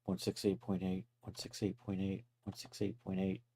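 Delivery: quiet repeated muttering under breath; muttering to himself. Real, not acted. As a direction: mutter the number over to remember it. Repeating number to memorize.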